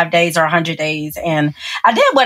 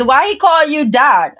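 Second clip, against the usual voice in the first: lightly voiced nosy question, higher and slow; nosy coworker; 6 semitones higher than usual. Coworker asking about the gift's label, lightly mimicked nosiness. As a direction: imitate a prying coworker, drawn out.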